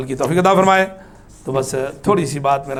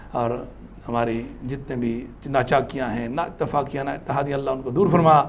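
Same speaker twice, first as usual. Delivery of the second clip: softer, lower supplication in a run of petitions; closing prayer; 4 semitones lower, 5 dB quieter than usual. Real, not acted. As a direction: pray quietly for everyone, winding down. Closing supplication after the lecture. (دھیمی آواز میں اختتامی دعا)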